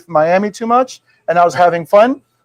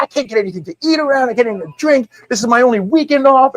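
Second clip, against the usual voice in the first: higher-pitched mock exasperation; retold fury; 5 semitones higher than usual. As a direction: gripe in a raised pitch, without shouting. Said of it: "So I am furious".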